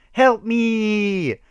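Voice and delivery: very high, loud cry for help; shrieked. A narrator's reading. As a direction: scream as she trips. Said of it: "shrieked Ada".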